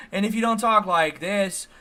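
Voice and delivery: exaggerated YouTuber lilt; mock YouTuber delivery. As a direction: parody how YouTubers stretch their phrases.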